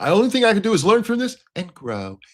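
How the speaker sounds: very high put-on childish little-kid voice. Mocking another speaker's apology line: imitating a little kindergarten voice. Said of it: "that little gay kindergarten voice he went into".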